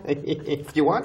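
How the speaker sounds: slow words through real laughter; laughing. Real, not acted. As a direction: say it while still laughing. Laughs while answering co-host.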